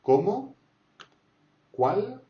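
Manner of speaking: Comment and Qual sweeping high at the end; loud, high-rising Comment, Qual; rising question tune. Shown as a demonstration. Teacher showing accented question words, Comment and Qual rising high. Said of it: "Quand il y a un accent, comme ça, question".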